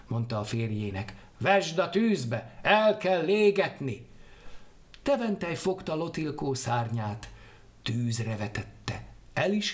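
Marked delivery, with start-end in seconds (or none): 1.4-4.1 insistent wife. Acted. Wife urges burning the wing.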